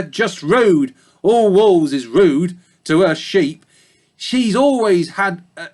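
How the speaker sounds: put-on a gossipy old ewe in a thick country accent. A narrator's reading. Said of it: "Sorry about the bad accents".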